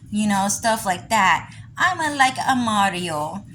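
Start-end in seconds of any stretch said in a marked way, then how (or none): 1.8-3.4 lightly put-on Mario-style Italian; a hint of cartoon Italian; mock Italian accent. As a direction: imitate a fake Italian accent, mildly. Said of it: "they just stylized Mario's voice".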